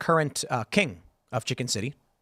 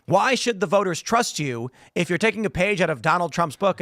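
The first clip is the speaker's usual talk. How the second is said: pompous journalist; 5 semitones higher than usual. Retold or imitated. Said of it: "And then he says".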